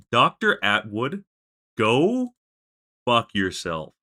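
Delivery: loud, slowed-down curse at Doctor Atwood; angry curse. Real, not acted. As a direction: tell him off with real heat. Cursing the game character.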